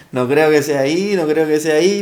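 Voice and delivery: rising, stubborn disbelief. Retold or imitated. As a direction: insist it can't be there. Denial growing as he nears.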